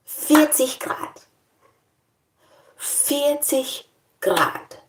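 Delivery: high, slow, drawn-out Vierzig Grad; stunned disbelief. Real, not acted. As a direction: savour the shock slowly. Disbelief at forty degrees.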